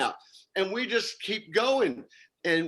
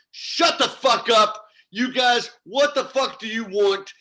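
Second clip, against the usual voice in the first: gunman yelling; 4 semitones higher, 6 dB louder than usual. Retold or imitated. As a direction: bark it like a clerk pulling a gun. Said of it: "he's behind it, he goes".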